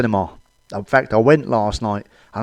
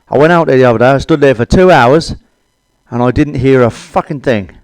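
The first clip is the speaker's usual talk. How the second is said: louder, indignant storytelling; loud rant; 6 dB louder than usual. Real, not acted. Comic to audience, bellowing his grape bush complaint. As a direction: bellow the punchline at the crowd.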